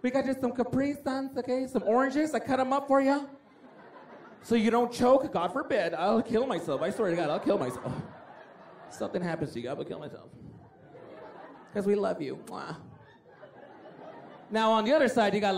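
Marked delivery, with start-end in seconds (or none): 0.0-3.2 higher, softer doting mom voice; mock white soccer mom fussing over snacks; over-the-top soccer mom. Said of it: "They're always over the top". 4.4-12.8 soft, doting mom fretting; mock-earnest mom, voice dropping away; over-the-top soccer mom. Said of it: "They're always over the top".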